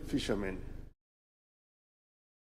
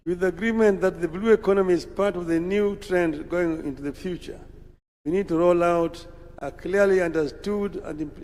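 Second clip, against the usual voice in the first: measured, deliberate speech read from a prepared text; formal speech. Acted. Leader addressing Madaraka Day crowd, formal speech delivery. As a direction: address the dignitaries with steady official gravity.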